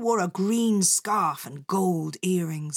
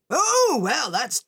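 surprised boss; 5 semitones higher, 5 dB louder, slower than usual. Acted. Boss changes his mind.

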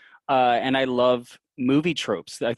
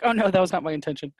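mock dismay; 6 semitones higher, faster than usual. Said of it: "And I'm like".

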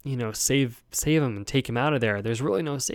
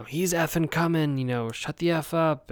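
higher-pitched mock exasperation; retold irritated snapping; 6 semitones higher than usual. Woman at the door brushing him off, irritated imitation. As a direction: imitate her cursing back, pitched up.

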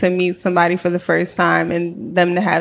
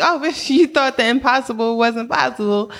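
higher-pitched, laughing mock astonishment; amused disbelief; 5 semitones higher than usual. Sister retelling how God answered her prayer, amused disbelief. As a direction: retell it as a giddy, teasing reaction.

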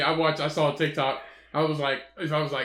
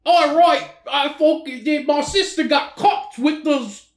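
high, loud, animated; animated storytelling; 9 semitones higher, 4 dB louder than usual. Real, not acted. Retelling the cheese fight to his friend, animated and loud. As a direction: tell it with gusto.

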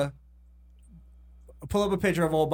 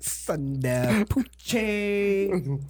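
slow, drawn-out fake Arab accent on Sundar Pichai; mock Arab accent; 3 semitones higher, much slower than usual. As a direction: stretch the name in a put-on Arab accent. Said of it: "He did an Arab accent in a New York accent".

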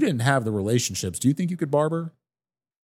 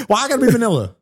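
mock offense; 11 semitones higher, 6 dB louder, faster than usual. Mock offended protest, laughing.

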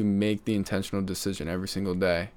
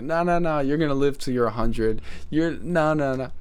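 insistent protest; 6 semitones higher, 6 dB louder than usual. Retold or imitated. Pleading with dying great aunt.

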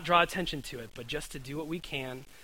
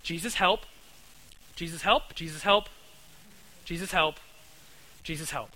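prayer demo; 2 semitones higher, 3 dB louder than usual. Shown as a demonstration. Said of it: "Pay attention".

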